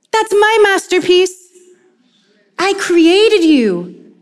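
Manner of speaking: starts high and surprised, settles tender and slow; a loving father insisting; lightly voiced God, tender; God's voice.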